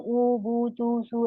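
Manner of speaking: ऊ, बू, तू, सू said short and quick; too short vowels, the wrong way; clipped wrong way. Shown as a demonstration. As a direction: rush ऊ बू तू सू without stretching. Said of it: "ऐसे नहीं पढ़ना ना".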